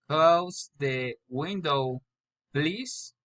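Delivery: "please" rises at the end; rising intonation. Shown as a demonstration. Learner practising polite requests, rising on "please". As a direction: lift "please" like a question. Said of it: "Question raising intonation".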